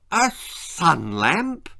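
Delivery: slow, surprised exclaiming voice; mother caught off guard; mother exclaims at the sun lamp, drawn out. Acted. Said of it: "exclaimed his mother".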